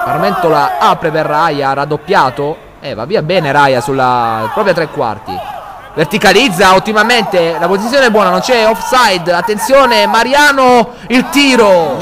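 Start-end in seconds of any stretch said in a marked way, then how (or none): 5.9-12.0 rising excitement. Real, not acted. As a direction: climb with the attack, peak on the shot. Attack building to a shot.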